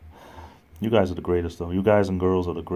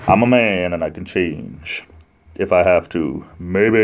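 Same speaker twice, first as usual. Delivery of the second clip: loud, punchy shock-jock delivery; 3 dB louder, slower than usual. Acted. Streamer redoes the man's prayer louder, shock DJ voice. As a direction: belt it out and stretch the words like a shock DJ. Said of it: "more like a shock D J".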